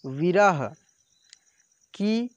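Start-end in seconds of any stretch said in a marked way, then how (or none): 0.0-0.7 विरह stretched very slowly, then said again; drawn-out reading. Shown as a demonstration. Teacher showing pupils how to read विरह, stretched out. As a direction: draw the word out slow and loud. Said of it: "ऐसे पढ़ेंगे".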